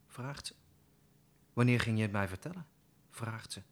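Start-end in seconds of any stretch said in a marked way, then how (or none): 1.5-2.7 fast, louder demanding question; angry outcry. Acted. Sister confronting Olga over leaving, fast and loud. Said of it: "Die schreeuwt".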